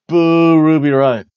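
mock boo. Booing a wrestler.

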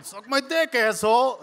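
mock yelled insult, pitched high; high-pitched acted-out taunt; retold yell. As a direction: holler it like a street brawler. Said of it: "was yelling at the other guy".

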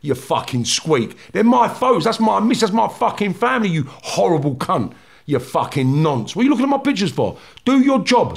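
replayed rage, pitch climbing, some words slowed; retold furious tirade. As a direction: tear into him for touching the photos. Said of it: "I said".

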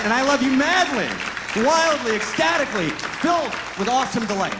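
an ecstatic vow of love; ecstatic declaration. Acted. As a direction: pour it out with passion. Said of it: "declaring love to the audience".

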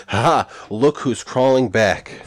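gloating taunt. Acted. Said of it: "so you can be like".

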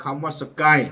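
สกาย read slowly, syllable by syllable. Shown as a demonstration. Explaining how the word sounds in Burmese, สกาย said slowly in two syllables. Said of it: "หากอ่าน ช้าๆ".

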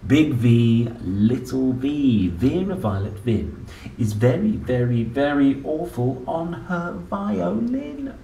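lively sing-song picture-book reading; reading to children. Acted. Parent reading an ABC book to a child, playful sing-song. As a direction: read it out like a bedtime book for a small child.

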